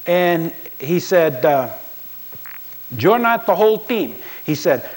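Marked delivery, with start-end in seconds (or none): 3.0-4.1 put-on loud, high Latino accent, barking at a player; a Latino coach commanding his lineman up close. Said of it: "he has this distinctive accent".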